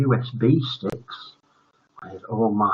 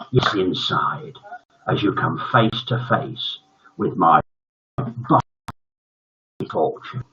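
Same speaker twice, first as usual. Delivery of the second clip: sinister teacher; 3 semitones lower than usual. Acted.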